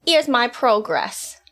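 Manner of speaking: slow, deliberate British, slipping at the end; attempted British accent. Shown as a demonstration. Student showing progress, slow slipping British accent. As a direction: hold British until it slips. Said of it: "Kinda lost it at the end".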